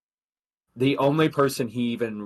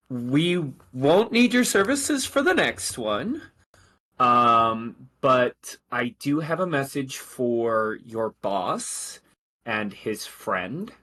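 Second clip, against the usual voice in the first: a polite officer dismissing the group, slower; officer's voice; 2 semitones higher, slower than usual. Acted. GM voices Lieutenant Mattias.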